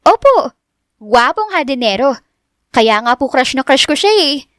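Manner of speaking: high, eager gushing over a crush. Acted. Richelle gushing about her crush.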